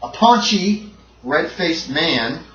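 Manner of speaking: slow, suspenseful horror narration; dramatic game master describing a monster's arrival; game master scene setting. A narrator's reading. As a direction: draw out each detail of the horror.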